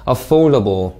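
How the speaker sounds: "affordable" with stress on FORD; careful word stress. Shown as a demonstration. Teacher models "affordable" for students, careful word stress. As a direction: punch the second syllable of "affordable". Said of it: "강세 주의해서 잘 읽으셨습니까".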